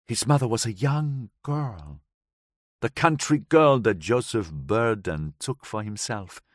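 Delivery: put-on light foreign accent, woman recounting; Gabriella's voice. Gabriella tells the narrator of that night, lightly accented. Gabriella explains Ned's mother.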